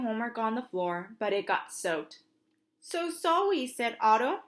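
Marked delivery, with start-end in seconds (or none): 2.8-3.7 put-on toddler apology.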